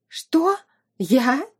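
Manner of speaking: high, wide-eyed mock innocence; wife faking surprise at the accusation; feigned surprise. A narrator's reading. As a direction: act shocked and innocent. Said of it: "правдоподобно округлила она глаза".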